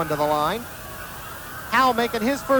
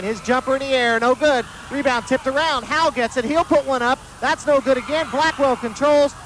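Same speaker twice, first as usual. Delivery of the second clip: excited play-by-play; 4 semitones higher than usual. Real, not acted. End-of-half play-by-play scramble.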